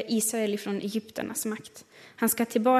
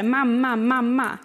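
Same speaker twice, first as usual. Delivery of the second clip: put-on child calling; 3 semitones higher, 5 dB louder, slower than usual. A child calling for mom, loud and eager. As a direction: call out like an excited kid. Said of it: "som ett barn ibland ropar".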